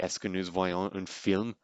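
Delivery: student French. Retold or imitated. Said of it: "one of the students would be like".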